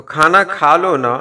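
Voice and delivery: a gentle coaxing please to eat; affectionate request. Shown as a demonstration. Teacher showing how a loving request to eat sounds, affectionate. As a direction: coax them lovingly with the na. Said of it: "बहुत प्यार से जब कुछ कहना हो".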